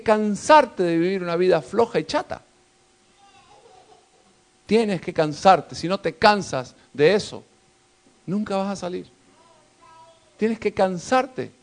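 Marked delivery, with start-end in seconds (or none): 4.7-5.8 drawn out, word by word; slow insistence. Acted. Repeated slow exhortation. 10.4-11.5 drawn out, word by word; slow insistence. Acted. Repeated slow exhortation.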